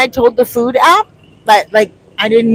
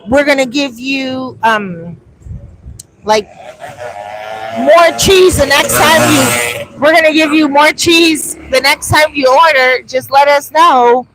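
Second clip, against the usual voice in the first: higher, louder cheery customer service; mock polite apology; 4 semitones higher, 4 dB louder than usual. Vlogger imagining the restaurant's reply, high cheery apology. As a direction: play the friendly restaurant fixing it. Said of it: "If they had gotten back to me and said".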